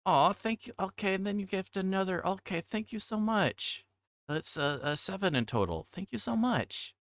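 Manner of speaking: high, delighted thank-yous; excited thanks. Real, not acted. Streamer thanking a viewer for seven gift subs, high delighted thanks. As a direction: pitch up, thrilled and grateful.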